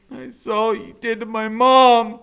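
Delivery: put-on a boy telling the killer what he saw; accusing shout. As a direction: throw the last words at him. Boy confronts killer after question.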